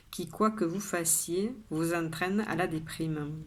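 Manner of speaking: measured poem reading with pauses between lines; poem recitation. Acted. Poet shares today's poem with viewers, measured recitation. Reads the poem a second time.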